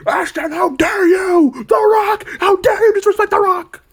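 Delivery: a fake tearful rage-scream at a critic; mock outrage. Vlogger mocking the rage he won't feel, hammed-up shrieking outrage. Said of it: "not gonna be mad and rage and say".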